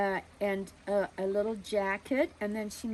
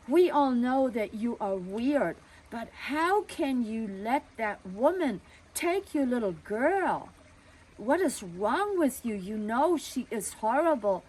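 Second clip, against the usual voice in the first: indignant neighbor; 2 semitones higher, 4 dB louder than usual. Retold or imitated. Neighbor scolds the family.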